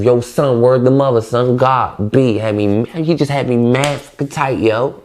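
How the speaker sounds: mock New York girl. Imitating how New York girls talk, aggressive New York accent. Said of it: "The girls even talk like that".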